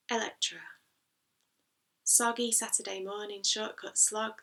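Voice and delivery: rhythmic recital, pausing at line breaks; poem reading. Acted. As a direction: recite the poem, building in volume at the end. Reads own poem aloud.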